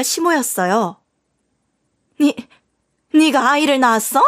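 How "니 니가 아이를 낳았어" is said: higher, stuttered disbelief; a mother-in-law who can't believe her ears; stammering shock. Acted. Mother-in-law snatching the photo, in stammering disbelief.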